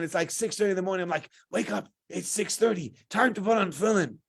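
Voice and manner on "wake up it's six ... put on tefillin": higher, lightly urgent rousing; retold wake-up call. Counselor waking Ari at six thirty, coaxing. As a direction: rouse a sleeper with a lifted voice.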